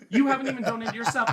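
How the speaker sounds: high, loud retold accusation; indignant call-out. Retold quarrel, calling out hypocrisy.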